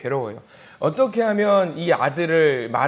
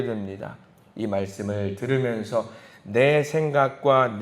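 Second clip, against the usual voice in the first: closing prayer; 3 semitones lower than usual. Real, not acted.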